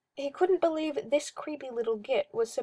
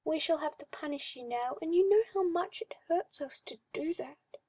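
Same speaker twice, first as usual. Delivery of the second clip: dramatic sigh; 5 semitones higher than usual. Acted. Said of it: "he sighed dramatically".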